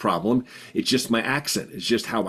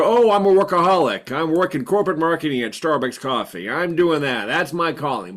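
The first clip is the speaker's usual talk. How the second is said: mock excuse; 5 semitones higher than usual. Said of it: "I cloaked it under".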